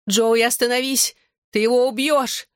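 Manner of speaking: high, alarmed pleading; frantic cry. A narrator's reading. Mother fears son will kill father, high frantic plea. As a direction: plead urgently with pitch well up. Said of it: "закричала мама".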